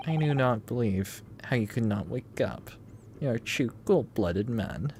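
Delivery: put-on lightly done Russian accent. Player voicing the Russian captor taunting in a Russian accent. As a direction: accuse him in a Russian accent. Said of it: "That accent? Eastern European?".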